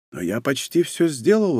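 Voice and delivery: ordinary talk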